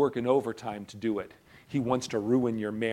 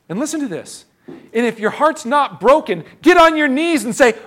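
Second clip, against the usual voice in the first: shouted high and loud, pleading; a preacher shouting the call to repent; full-force preaching; 12 semitones higher, 12 dB louder than usual. Real, not acted. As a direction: preach it at the top of your lungs.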